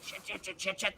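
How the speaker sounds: quiet string of curses under the breath; muttered curses. Retold or imitated. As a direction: mutter the swears to yourself. Muttering curses while limping.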